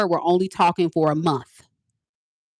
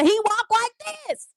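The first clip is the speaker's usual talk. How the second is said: gossipy tease. Retold or imitated. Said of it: "But Mika".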